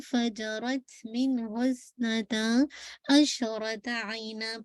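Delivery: Quran recitation. Acted. Recites the verse.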